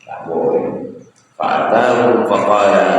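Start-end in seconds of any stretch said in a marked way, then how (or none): 0.0-0.6 low, soft, quick admonition; the Prophet's gentle warning. Retold or imitated. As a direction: warn him quietly and gravely. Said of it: "Kata Nabi sallallahu alaihi wasallam".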